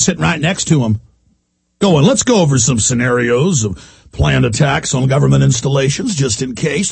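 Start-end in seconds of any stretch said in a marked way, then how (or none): 1.8-6.9 lower, coaxing mock agent voice; sly fed. Host imitating an undercover agent, low coaxing tone. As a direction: lightly play the scheming informant.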